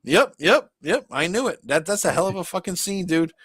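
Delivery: high, loud, hammed-up mock weeping; choked up. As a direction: play up being choked up. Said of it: "I'm getting a little choked up now".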